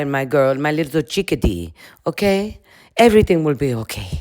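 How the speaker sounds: lightly voiced Russian granny accent; hint of a consoling Russian babushka; mock Russian accent, soothing a friend. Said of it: "her Russian babushka comes out a little bit".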